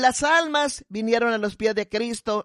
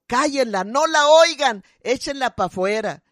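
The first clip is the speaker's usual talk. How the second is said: loud heckle; 4 dB louder than usual. Retold or imitated. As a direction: shout them down, dragging the last words. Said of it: "con voz bien fuerte decía".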